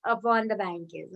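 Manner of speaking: slow, lingering "How"; exclamation. Shown as a demonstration. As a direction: marvel at it dreamily. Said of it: "But if you say".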